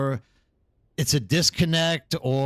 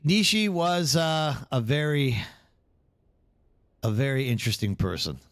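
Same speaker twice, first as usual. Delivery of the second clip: normal talking voice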